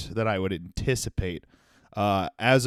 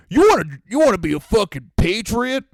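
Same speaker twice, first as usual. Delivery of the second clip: mock yell; 9 semitones higher, 5 dB louder than usual. Mock challenge over the name.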